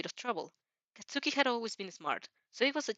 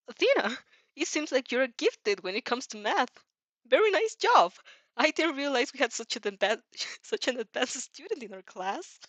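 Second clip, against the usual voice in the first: higher and louder, gushing praise; amazed teacher; 4 semitones higher, 3 dB louder than usual. Acted. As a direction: gush like a stunned, delighted teacher. Teacher praising gifted student.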